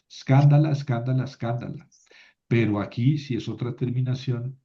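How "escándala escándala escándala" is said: "Escándala" stressed on the same syllable, CAN, each time; accent kept fixed. Shown as a demonstration. Teacher showing neuters keep their accent, same stressed syllable in each "Escándala". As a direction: recite "Escándala" three times, fading, stress never shifting. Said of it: "entonces no muevo la, el acento".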